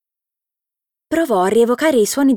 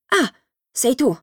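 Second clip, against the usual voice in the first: a relieved sigh of recognition, slightly higher; 5 semitones higher than usual. A narrator's reading. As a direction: relief after a fright. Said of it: "disse, sollevato". (sollevato, un po' più acuto)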